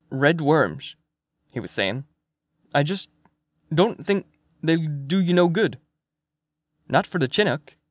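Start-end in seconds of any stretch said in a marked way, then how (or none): 0.1-1.0 RED WORMS as a statement, falling at the end; old Swede fisherman, mumbled reply. Acted. 2.7-7.8 put-on halting old fisherman with a lilt; hesitant Swedish fisherman, in broken phrases; lightly voiced old Swede, doubtful.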